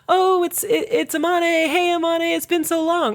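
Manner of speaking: put-on a touch of childish delight; excited greeting. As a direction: greet the long-lost brother eagerly. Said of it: "very excited to see his brother".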